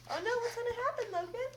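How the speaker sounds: high, fast excited question; mock suspense. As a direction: tease the listener with suspense. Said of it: "asks child in mock suspense".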